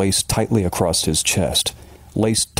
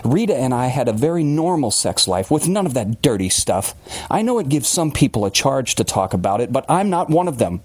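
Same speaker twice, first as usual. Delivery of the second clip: lightly voiced indignant man; hint of prickly self-defense; Billings, indignant; 5 semitones higher than usual. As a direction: insist on telling it your own way.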